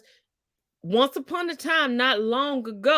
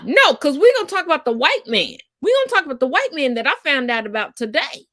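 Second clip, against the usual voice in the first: excited announcing; 2 semitones higher, 6 dB louder than usual. Acted. Announcing the gossip topic.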